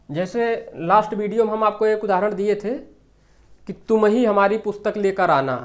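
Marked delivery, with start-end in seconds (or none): 3.9-5.5 तुम ही pressed out emphatically; single out the listener with a stressed ही. Shown as a demonstration. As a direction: put the weight on ही right after तुम. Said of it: "जोर देकर बोला जाए".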